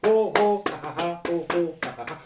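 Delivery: chanted loud; medium ho ha. Shown as a demonstration. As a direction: solid medium-strength ho ha. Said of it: "quand moyen, quand fort". (ho ha d'intensité moyenne)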